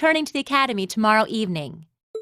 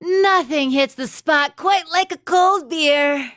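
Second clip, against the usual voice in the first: slow, contented relish after a long sip; savouring a beer; 2 semitones higher, much slower than usual. Acted. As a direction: let out a satisfied ahh and savour every word. Teacher savouring beer before noon.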